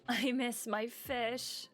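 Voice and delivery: slow sulky pout; pouting, sad. Acted. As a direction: whine it slowly like a sulking kid. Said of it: "Julian pouts".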